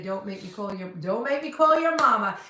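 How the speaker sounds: Southern scolding, rising on mama; Southern saying. Shown as a demonstration. Showing off a Southern phrase to a friend, playful Southern warning. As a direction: put Southern sass into a parent's warning. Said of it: "and we also say".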